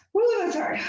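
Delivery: high, loud exclamation of effort; strained woo. Real, not acted. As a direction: cry out at the burn. Exclaims during hard exercise.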